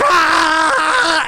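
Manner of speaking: loud high excited yell; fan yell. Retold or imitated. Young guys at a Marvel screening, loud excited yell. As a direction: holler like a hyped fan. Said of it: "all you hear is".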